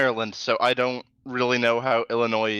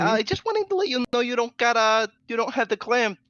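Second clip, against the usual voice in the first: nurse voice; 8 semitones higher than usual. Retold or imitated. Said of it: "she didn't sound like that".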